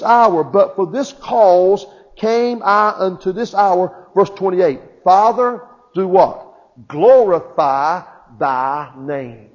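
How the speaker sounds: loud, emphatic sermon delivery with stretched key words; forceful preaching. Real, not acted. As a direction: preach it to the congregation with conviction.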